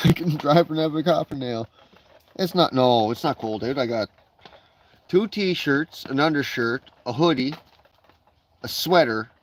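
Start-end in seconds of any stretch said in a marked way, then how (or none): 0.1-3.8 talking around a cigarette; words round a lit smoke; cigarette in mouth. Real, not acted. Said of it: "I gotta have a cigarette".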